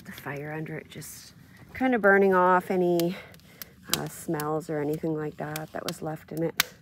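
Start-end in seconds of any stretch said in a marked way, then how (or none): none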